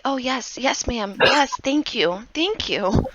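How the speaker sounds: put-on nod along like a grateful little kid; eager little boy. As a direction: orphan boy nodding eagerly at the fortune teller. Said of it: "he's just a little bobblehead".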